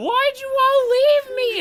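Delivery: panicked yell, very high and slow.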